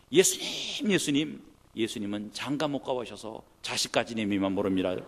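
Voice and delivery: loud pleading cry to Jesus; a mother's loud pleading prayer; mother's tearful prayer. Retold or imitated. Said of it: "이렇게 기도하시더라고요".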